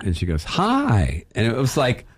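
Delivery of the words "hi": warm, friendly hi. Retold or imitated. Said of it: "warm and friendly".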